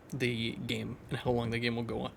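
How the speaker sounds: talking through hiccups; hiccuping. Real, not acted. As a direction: hiccups breaking the words. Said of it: "Sorry, I'm hiccuping".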